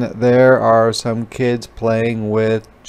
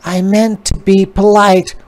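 higher, louder spider voice; apologetic spider; 9 semitones higher, 6 dB louder than usual. A narrator's reading. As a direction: explain kindly, a bit embarrassed. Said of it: "said the spider".

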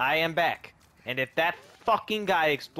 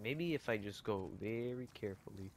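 sneaky whisper; 8 semitones lower, 18 dB quieter than usual. Real, not acted. Sneaking past an enemy.

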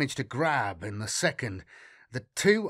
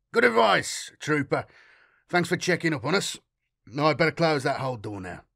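hearty captain; 2 semitones higher, 4 dB louder than usual. Acted. Captain cheerful bluff.

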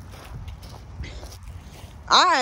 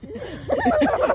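honking voice. Retold or imitated. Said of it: "they laugh like a goose".

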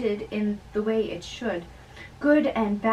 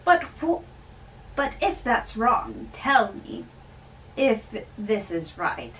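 raised, loud and jovial; cheerful old friar; 4 dB louder than usual. Acted. Old friar teasing the young man at dawn, loud and jovial. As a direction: tease the young man heartily, voice up.

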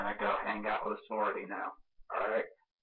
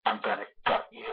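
Scream Ghostface voice; faster than usual. Pretend. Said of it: "I think this is from Scream One and Two".

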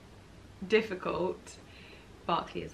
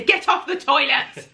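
raised, higher mock-stern command; acted shouted order; 7 semitones higher, 6 dB louder than usual. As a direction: call out an order to your dawdling partner. Acts out ordering partner off toilet.

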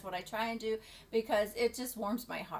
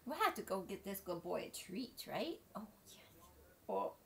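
soft pet talk; 9 dB quieter than usual. Real, not acted. Talking softly to dog.

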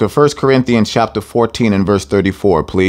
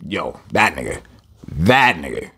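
street talk; 6 semitones lower, 5 dB quieter than usual. Retold or imitated. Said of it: "how we would be like".

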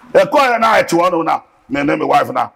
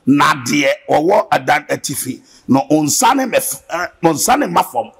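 scripture reading; 3 semitones lower, slower than usual. Acted.

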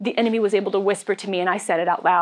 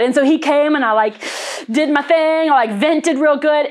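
mock angry; 7 semitones higher, 6 dB louder than usual. Retelling her raging vent.

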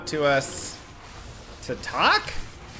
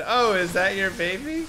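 imitated friendly question; 6 semitones higher than usual. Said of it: "So when someone said".

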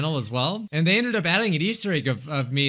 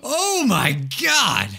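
shaken; 8 semitones higher, slower than usual. Real, not acted. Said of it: "That scared me".

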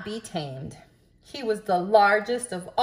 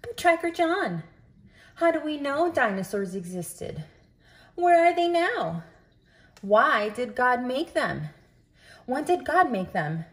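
put-on higher, eager kid's voice asking questions; curious child; 5 semitones higher than usual. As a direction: play a curious child quizzing the narrator. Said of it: "I can hear you saying".

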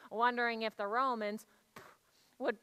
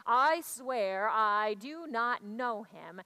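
slow sworn denial; 3 semitones lower, 5 dB louder, slower than usual. Retold or imitated. Big man's final denial.

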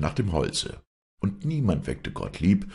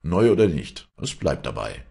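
stern; 6 dB louder than usual. Acted. Master insists angrily.

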